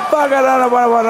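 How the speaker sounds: high garbled swearing; hammed-up heckler babbling obscenities; mock abusive rant. Acts the abusers' swearing back.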